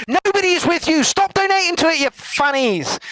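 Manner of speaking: high desperate yell. Real, not acted. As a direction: shriek at them to stop. Begging chat to stop donating.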